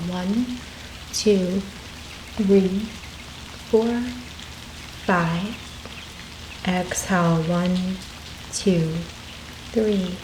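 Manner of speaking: calm guided breathing voice with long pauses; guided meditation. Acted. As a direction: lead listeners gently through each breath, counting with space between numbers.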